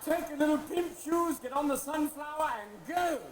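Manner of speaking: loud, high mock shout; shouted eviction. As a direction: bark them out the door, hammed up. The English kicking Puritans out.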